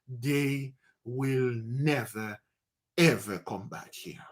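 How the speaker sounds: put-on old man calmly assures the captain; old man's calm promise. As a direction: settle it slowly and quietly. Old man reassures young captain.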